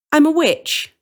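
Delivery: cheerful witch declaring herself. Acted. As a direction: announce it like a proud witch. Witch voiced in story.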